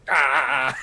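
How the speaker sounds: acted strained "ah"; mock cry of effort; straining yell. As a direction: cry out as the rope pulls taut. Acts out straining on the rope.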